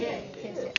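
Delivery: softly said 谢谢, second 谢 toneless; neutral second syllable. Shown as a demonstration. Teacher repeats the neutral tone example, second 谢 light. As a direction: say 谢谢 quietly, letting the second 谢 fade. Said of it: "That's again a neutral tone".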